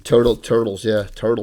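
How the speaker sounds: natural South Jersey pronunciation of "turtles"; real South Jersey accent on "turtles". Real, not acted. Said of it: "that's my South Jersey accent going".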